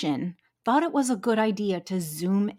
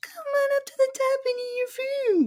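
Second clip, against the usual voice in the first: very high, squeaky, rushed adolescent voice. Retelling how Austin talked to the fish in their apartment, imitating Austin's weird high-pitched voice. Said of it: "Austin does this high pitch".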